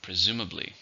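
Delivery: Presumably, stressed on SUM; second-syllable stress. Shown as a demonstration. Teacher models Presumably for learners, stress on SUM. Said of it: "stress in the second".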